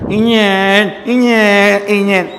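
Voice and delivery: imitating a motorbike engine; ruido de moto. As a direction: hum a motorbike like a kid playing. (imitando el motor de una moto)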